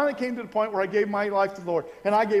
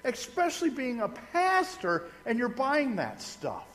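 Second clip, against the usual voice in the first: high, slow, incredulous questioning; incredulous disbelief; 7 semitones higher, slower than usual. Retold or imitated. Young pastor questioning the beer-buying Lutheran pastor, incredulous. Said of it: "I'm going".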